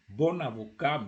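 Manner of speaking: BON AVOCAT with a linking n; liaison. Shown as a demonstration. Teacher repeats BON AVOCAT before translating, liaison. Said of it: "you have to join".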